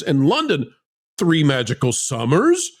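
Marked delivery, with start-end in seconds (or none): 1.2-2.7 incredulous repeat. Shown as a demonstration.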